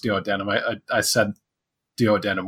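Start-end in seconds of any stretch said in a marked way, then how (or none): 0.0-0.5 duodenum said as "duo-DAN-um"; mispronounced duodenum. Shown as a demonstration. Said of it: "I thought it was pronounced". 2.0-2.4 duodenum said as "duo-DAN-um"; mispronounced duodenum. Retold or imitated. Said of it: "mispronouncing the duodenum".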